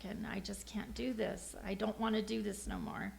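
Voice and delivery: soft, weary plea to God; hushed retold praying; retold prayer. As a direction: pray it quietly, half under the breath. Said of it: "I just kept praying to God".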